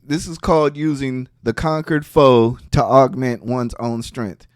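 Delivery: low, softening recitation; formal reading. Acted. Streamer quotes war strategy to viewers, formal reading. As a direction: read the maxim out low, tapering off at the end.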